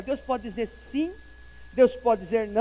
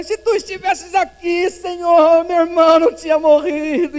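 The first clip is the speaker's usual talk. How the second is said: pleading cry; 6 semitones higher, 12 dB louder than usual. Retold or imitated. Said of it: "Maria vem chorando para ele".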